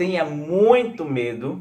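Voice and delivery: ordinary talk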